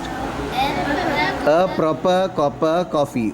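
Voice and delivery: slow, deliberate tongue twister; slow model. Shown as a demonstration. Teacher sets the twister slowly before the class repeats. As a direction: draw each word out slowly. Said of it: "What's next?".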